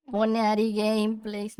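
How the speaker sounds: chirpy streamer greeting; cute anime streamer. Acted. Streamer intro call.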